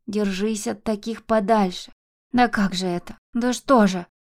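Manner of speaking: keen and complain, rocking back and forth; old woman bewailing her children's fate; lamenting. Acted. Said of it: "начала раскачиваться ... и причитать".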